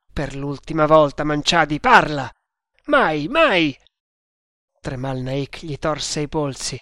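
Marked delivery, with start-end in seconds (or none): 0.1-2.3 loud command, hardest on last word; angry ultimatum. Acted. Tremal Naik demands an answer from his prisoner, angry. 2.9-3.8 loud, higher-pitched refusal; defiant shout. Acted. The prisoner refuses to betray his secret, shouting defiantly.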